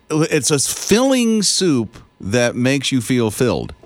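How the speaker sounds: slow, deliberate commercial pitch; mock ad voice. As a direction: sell the soup like a TV ad, slowly.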